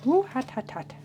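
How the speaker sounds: gasping around a hot bite; mouth full of hot food. Real, not acted. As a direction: talk through a scalding mouthful. Just took a bite, too hot.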